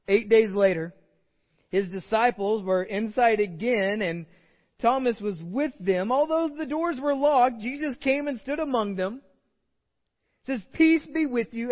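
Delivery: preacher proclaiming the text with growing force; building scripture reading. Acted. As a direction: read it like a rising announcement.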